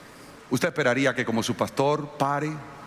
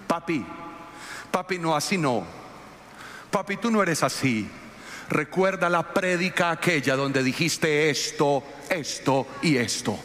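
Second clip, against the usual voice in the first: pleading daughter; 2 semitones higher than usual. Retold or imitated. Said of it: "llorando dice".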